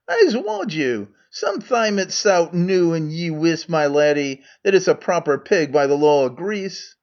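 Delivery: Scots Megarian. Acted. Megarian role in Scots dialect.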